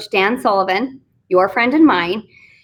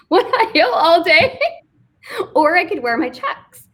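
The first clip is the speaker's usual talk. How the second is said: laughing; 6 semitones higher than usual. Real, not acted. Laughing while listing silly options.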